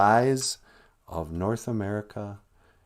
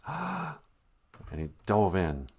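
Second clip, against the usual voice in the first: big gulp of air; 3 semitones lower, 4 dB quieter, much slower than usual. Acted. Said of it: "he took a big gulp of air".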